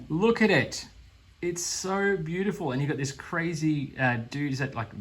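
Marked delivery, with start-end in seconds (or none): 0.1-2.7 high, louder swoon; delighted wow at the dragon; high gush. Real, not acted. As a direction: marvel at it out loud. Gushing over the dragon.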